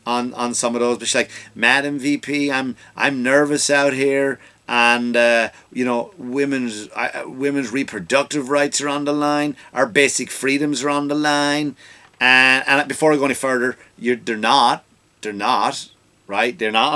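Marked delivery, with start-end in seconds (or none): 1.5-11.8 Taraji voice. Retold or imitated. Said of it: "I'll probably do the voice".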